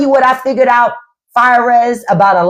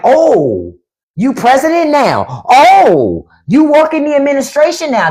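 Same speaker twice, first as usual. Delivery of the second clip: mock fawning; 4 semitones higher than usual. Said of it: "They want you to be".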